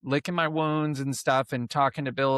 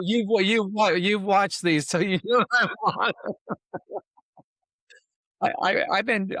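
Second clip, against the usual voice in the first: higher, laughing and choking up on the words; laughing through tears; 5 semitones higher than usual. Real, not acted. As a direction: laugh it off while fighting back tears. Host laughing while admitting tears.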